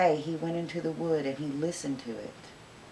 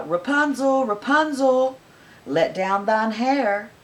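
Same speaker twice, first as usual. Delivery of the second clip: high calling up a tower; witch calling out; 6 semitones higher, 6 dB louder than usual. Acted. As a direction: call it loud and high, slowing. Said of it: "she would cry".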